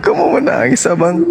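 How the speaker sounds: very high teasing coo; high-pitched mock sympathy; mock pity. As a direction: tease in a squeaky high voice. Teasing the man's claimed crying.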